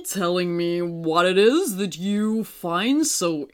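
put-on old, gentle moon voice, unhurried.

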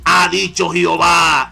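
slow, deep, booming prophet voice; voice from beyond the grave. Shown as a demonstration. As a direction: intone it like an oracle from the tomb. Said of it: "le ponen una voz de ultratumba así".

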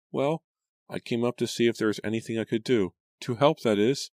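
high, hurried nervous maid; flustered maid. A narrator's reading. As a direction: rush it, high and anxious. Flustered maid explains herself.

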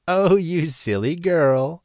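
high, loud, slow cackling scorn; cackling witch. A narrator's reading. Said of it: "cackled the witch".

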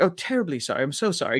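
high, soft mock weepy apology; imitated tearful apology. Retelling the crying woman's apology, mock tearful. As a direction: imitate someone apologising through tears. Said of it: "she just starts crying".

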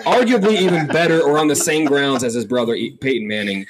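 mouth full of peanut butter. Real, not acted. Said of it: "talking with peanut butter in my mouth".

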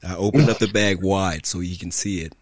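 usual speaking voice

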